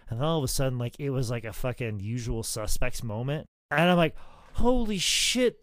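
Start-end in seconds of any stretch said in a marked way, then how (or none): 4.5-5.6 high, loud, slow exclamation; stunned realization. Retold or imitated. Wrestler suddenly understanding the match psychology, stunned. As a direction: draw it out as it dawns on you.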